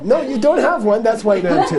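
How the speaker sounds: high-pitched play-acted contradiction; mock rebuttal. Teacher contradicts friend about her husband, mock insistent. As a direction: argue back with pitch jumping up.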